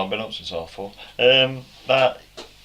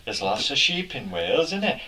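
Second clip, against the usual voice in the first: attempted Welsh; 2 semitones higher than usual. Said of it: "No, that's bloody Somerset".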